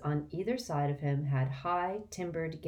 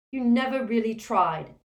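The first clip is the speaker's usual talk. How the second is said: loud, heated snap back; hot retort; 7 semitones higher, 7 dB louder than usual. Acted. Hermione arguing with Harry, heated. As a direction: fire it back hotly. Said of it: "she said hotly".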